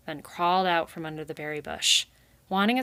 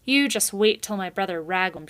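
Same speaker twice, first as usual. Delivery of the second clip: shouted back; 5 dB louder than usual. Acted. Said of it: "Thistle stopped and shouted back".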